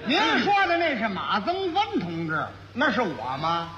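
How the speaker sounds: laughing protest. Real, not acted. Realizing he's mistaken for teacher.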